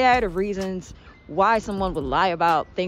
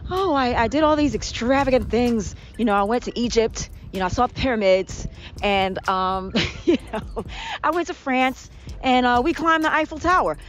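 boastful liar; 3 semitones higher than usual. Retold or imitated.

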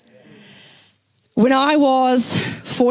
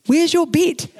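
laughing friends; 6 semitones higher, slower than usual. Retold or imitated.

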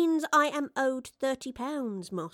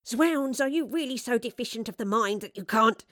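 raised, scornful scolding of a dim servant; mild, haughty exasperation; exasperated berating; 3 semitones higher, 4 dB louder than usual. Acted. Fraser berating his henchman at the door, exasperated.

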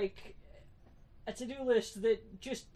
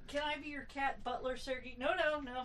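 higher, softer pet-directed voice; talking to the cat; 5 semitones higher, 3 dB quieter than usual. Real, not acted. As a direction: coax the cat softly, pitched up.

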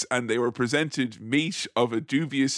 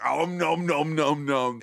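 troll munching; slower than usual. Pretend. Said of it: "troll eating noise".

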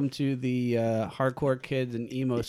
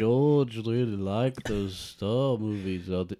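put-on Liverpool accent. Co-host posing as director's pal asking about starships, Liverpool accent. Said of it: "I do mine from the poo".

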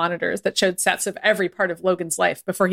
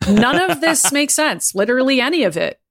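laughing; 6 semitones higher, 4 dB louder than usual. Real, not acted. Laughing exasperated remark.

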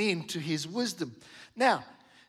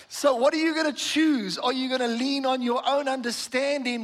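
rousing challenge; 5 semitones higher than usual. Real, not acted. Preacher's challenge.

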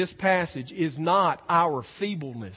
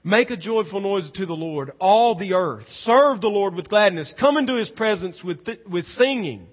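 somewhat louder, declamatory scripture reading; scripture proclamation; 3 semitones higher, 7 dB louder than usual. Acted. Preacher reads the psalm to the congregation, proclaiming. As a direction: proclaim the psalm with ringing force.

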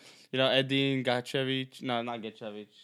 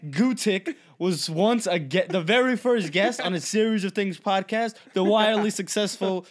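higher, mock TV retrospective commentator; TV special talking head; 4 semitones higher, slower than usual. Riffing as a future TV special about the podcast, mock amazement. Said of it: "like one of those V H one specials".

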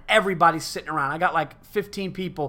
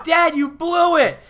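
put-on much higher, louder, slow little-kid voice; imitating his son; 11 semitones higher, 7 dB louder, slower than usual. Retelling his son's verdict to a friend, high child voice. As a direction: play the disappointed six-year-old. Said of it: "And he goes".

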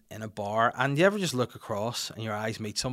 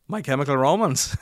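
put-on louder German-accented English; 3 semitones higher, 6 dB louder than usual. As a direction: imitate a German repeating it plainly. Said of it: "And he was like".

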